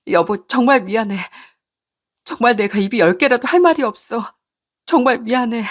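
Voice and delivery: pleading wife. Acted. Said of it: "싹싹 용서를 빌었습니다".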